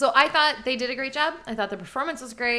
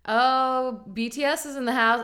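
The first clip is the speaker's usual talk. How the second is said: impression of a singer. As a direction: announce it like an excited TV host. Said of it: "That was a good Kelly Clarkson impression".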